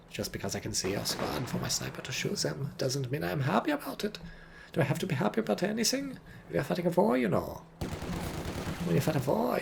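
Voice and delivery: lightly voiced German commander accent; a hint of a German officer. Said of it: "I should do a German accent".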